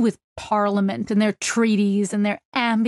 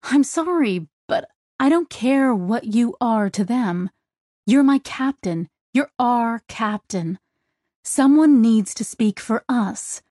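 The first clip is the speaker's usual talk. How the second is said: raised, pitch up, pleading and angry; teary anger; 3 semitones higher than usual. Acted. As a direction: push through tears at the captain. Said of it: "irritably flicking away tears".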